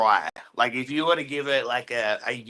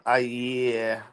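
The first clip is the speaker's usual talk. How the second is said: robot voice. Real, not acted. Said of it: "you sound like a robot".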